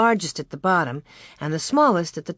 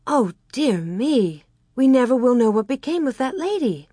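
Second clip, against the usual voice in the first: lamenting; 5 semitones higher than usual. A narrator's reading. Girl whose story broke off unfinished, lamenting. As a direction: lament it, drawing out the first words. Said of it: "Mary lamented".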